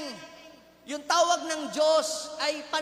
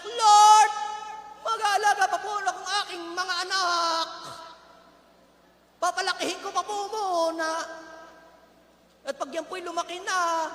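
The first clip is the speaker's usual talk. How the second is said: loud, high "Lord", then an urgent plea; loud pleading excuse; 3 semitones higher, 5 dB louder than usual. Retold or imitated. Parent begging the Lord to wait, loud plea. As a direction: cry out to the Lord and bargain.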